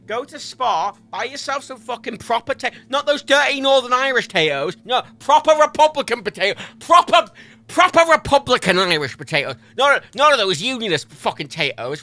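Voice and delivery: loud, high-pitched comic tirade; impassioned mock rant. Streamer ordering viewers to buy Irish potatoes, loud mock rant. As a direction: rant at full volume, punching PROPER.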